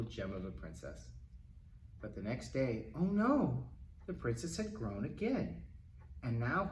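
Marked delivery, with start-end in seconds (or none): 2.9-3.7 higher, louder mock alarm; playful oh no for the kids; mock dismay. A narrator's reading. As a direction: gasp it like a worried storyteller. Narrator reacts to growth.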